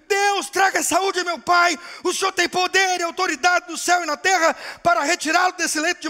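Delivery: loud, high desperate prayer shouted; a daughter pleading at a deathbed, voice up high and loud; crying out to God. Acted. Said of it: "começou a chorar ... clamar".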